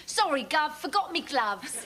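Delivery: lightly voiced Cockney accent; a hint of a Cockney maid. She shows the old Cockney voice she had before elocution lessons. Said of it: "I talked like this".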